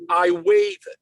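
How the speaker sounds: high, loud mock protest; retold defiant refusal. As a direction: blurt it out as an imitated indignant refusal. Retold fisherman defiantly refusing tax form.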